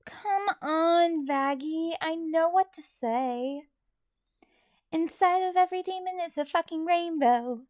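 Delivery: cheerful pep-talk to Vaggie, only a hint of Charlie; Charlie's voice. Fan request: a sheepish understudy voices Charlie cheering up Vaggie. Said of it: "Would you please say in Charlie's voice".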